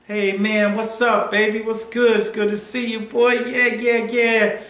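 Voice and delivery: mock friendly big-brother greeting. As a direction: greet him like an old pal. Hasim's friendly greeting, acted out.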